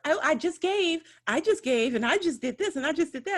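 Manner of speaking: mocking guilty donors.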